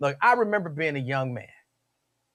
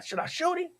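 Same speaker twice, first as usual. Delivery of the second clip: mock asking; 12 semitones higher, 6 dB quieter than usual. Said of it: "I'm like".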